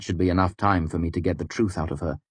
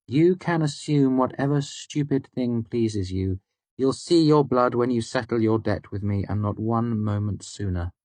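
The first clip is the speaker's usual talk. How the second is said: higher, contemptuous woman's voice; scornful Devi; 4 semitones higher than usual. A narrator's reading. Devi refusing the narrator his blood, scornful. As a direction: brush him off with disdain. Devi's voice.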